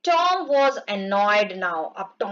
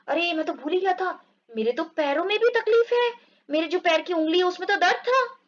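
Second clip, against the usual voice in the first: mock surprise; 5 semitones higher than usual. Tom voiced remembering toe pain.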